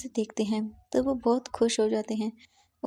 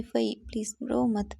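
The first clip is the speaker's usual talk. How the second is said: soothing whisper. Acted. Mother whispers to crying Fai, slow and soothing. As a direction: hush her tears gently, slowly.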